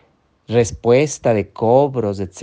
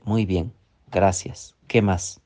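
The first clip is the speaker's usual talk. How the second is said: calm grateful reply; 3 semitones lower, 4 dB quieter than usual. Shown as a demonstration. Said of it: "Y tú respóndele".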